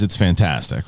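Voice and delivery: put-on low Austrian-accented catchphrase; Arnold. Co-host showing his get-into-character phrase, Austrian-accented impression. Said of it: "Arnold's always".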